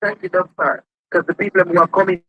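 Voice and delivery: muffled TV audio in background; distant television bleeding into mic; tv through the wall. Real, not acted. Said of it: "that's my mom's T V in her room that's on".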